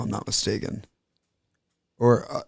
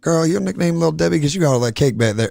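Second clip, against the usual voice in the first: cheesy pickup line; 5 semitones higher than usual. Pretend. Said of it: "the one I'm trying to remember is".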